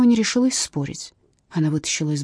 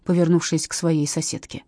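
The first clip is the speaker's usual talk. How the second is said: plain reading voice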